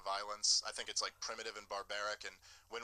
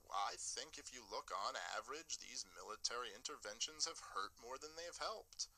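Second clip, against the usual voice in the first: lightly imitated politician, softly spoken; a hint of a soft-voiced candidate impression; Gary Johnson; 6 dB quieter than usual. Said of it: "That is exactly how he sounds".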